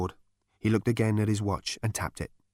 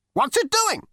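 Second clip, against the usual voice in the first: put-on old ghost voice; 3 dB louder than usual. A narrator's reading. Ghost asks.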